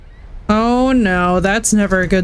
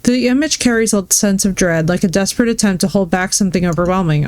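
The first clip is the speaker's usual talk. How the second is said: ominous narration; story narration. Acted. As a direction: narrate the scene with dread. Reads an image description.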